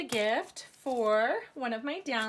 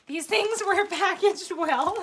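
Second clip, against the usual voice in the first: laughing; 7 semitones higher, 5 dB louder than usual. Real, not acted. Laughs over well-packed box.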